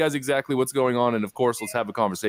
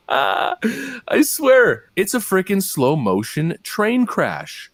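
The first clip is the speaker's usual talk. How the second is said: exasperated laugh; 8 semitones higher, 4 dB louder, much slower than usual. Real, not acted. Laughing at the clip.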